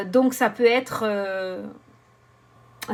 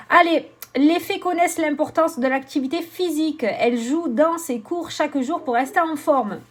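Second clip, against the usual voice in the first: higher-pitched, lively read-aloud voice; card read aloud; 5 semitones higher than usual. Acted. Oracle reader sharing the fairies' advice, animated reading.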